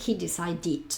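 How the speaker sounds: "decided" con final "did" bien marcado; -ed pronunciado "did". Shown as a demonstration. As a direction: pronuncia la última sílaba de "decided" como "did". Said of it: "E D y pronuncio did". ("decided" acabado en una sílaba "did" clara)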